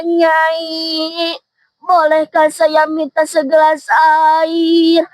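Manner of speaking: lightly voiced frail old man, slow and pleading; weak old man. Old man begs for water. (kakek tua lemah memohon pelan)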